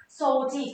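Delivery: "Sochi" with a long "So"; long vowel. Shown as a demonstration. Teacher repeats the reading for learners, long vowel in "Sochi". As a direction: hold the o of "Sochi", then say "chi". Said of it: "Chữ trang thì sẽ có trường âm".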